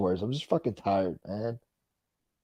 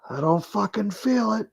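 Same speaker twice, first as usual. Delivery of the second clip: pitched up high in protest; high squeaky voice; 11 semitones higher than usual. Real, not acted. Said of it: "I don't feel it".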